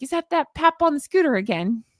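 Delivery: lightly imitated affected accent; mock Meghan's odd accent. Mocking Meghan's odd accent from the documentary, lightly affected. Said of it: "talking like her on purpose 'cause she did a weird accent".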